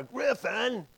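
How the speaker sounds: high, loud, urgent call. Retold or imitated. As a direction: shout up through the house. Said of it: "And I'm shouting louder".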